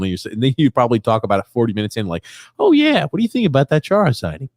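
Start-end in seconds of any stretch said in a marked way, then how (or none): 2.6-4.5 high, mocking imitation of the cohost. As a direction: ham up a lazy host asking late. Mocking cohost's late question.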